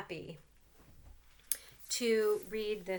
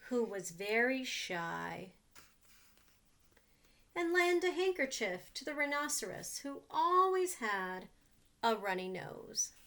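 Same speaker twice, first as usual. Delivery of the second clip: put-on reading to children. A narrator's reading. Reads picture book to children.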